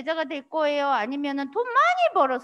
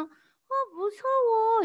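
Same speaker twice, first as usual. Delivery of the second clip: scared; 7 semitones higher, much slower than usual. Acted. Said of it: "이렇게 생각했을 수도".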